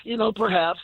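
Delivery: high, careful hopeful inner voice, a hint of disbelief; tentative hope. Caller retells his inner voice as the Bears rally, high tentative hope. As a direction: lift it up high, daring to hope again.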